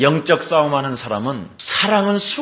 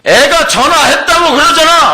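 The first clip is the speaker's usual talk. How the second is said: much higher and louder, pushing back hard; defensive wife; 12 semitones higher, 8 dB louder than usual. Acted. Wife protests to her husband at dinner, shrill and indignant.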